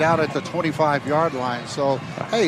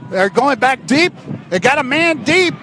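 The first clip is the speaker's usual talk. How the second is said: excited; 8 semitones higher, 3 dB louder than usual. Real, not acted. Deep pass in the air.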